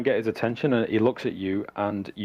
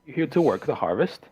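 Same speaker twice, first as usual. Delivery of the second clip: higher, lilting turnip farmer; Bildrath; 8 semitones higher than usual. Acted. Farmer asks travellers about harvest work, higher curious voice. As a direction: question the strangers in a higher farmer's voice. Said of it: "yeah, he says".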